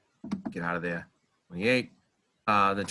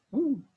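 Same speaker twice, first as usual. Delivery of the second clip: high squeaky hiccup woo; a sudden high hiccup; hiccup yelp. Real, not acted. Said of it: "my hiccups".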